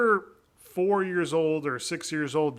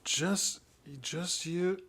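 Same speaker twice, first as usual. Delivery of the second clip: lightly voiced indifferent king; wishy-washy king. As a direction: shrug it off, can't be bothered. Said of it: "the king was, like, wishy-washy about it".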